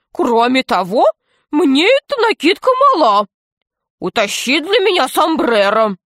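high-pitched comic pirate voice; put-on high voice, demanding the sombrero; Весельчак У. A narrator's reading. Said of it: "удивился весельчак У". (высоким комическим голосом пирата)

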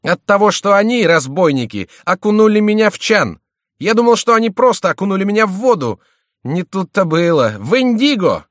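very high, loud indignation; worked-up, high-pitched tirade; outraged rant. A narrator's reading. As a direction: complain at the top of your range. Dyed victim rants about being dunked.

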